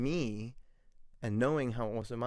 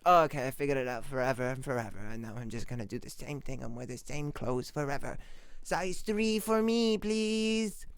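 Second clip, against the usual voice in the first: put-on stuck childish voice. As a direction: play someone who refuses to change, childishly. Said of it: "You can't just be like".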